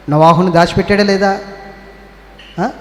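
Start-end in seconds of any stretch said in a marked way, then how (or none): none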